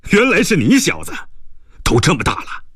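high, drawn-up exclamation of recognition; officer greeting a youngster. Acted. (惊喜地认出晚辈，嗓音扬高)

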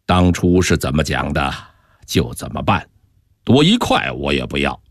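low, even, calm refusal. A narrator's reading. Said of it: "平静地说".

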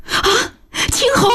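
high, piercing wail of a name; anguished cry. Acted. Aunt cries out over the dying boy, anguished wail. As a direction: cry out in horror at his death. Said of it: "惨叫了一声".

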